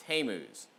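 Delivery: Tammuz said slowly as TAY-mooz; tentative pronunciation. Real, not acted. Preacher attempting an unfamiliar Bible name, tentative pronunciation. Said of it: "not sure if that's how you say that name".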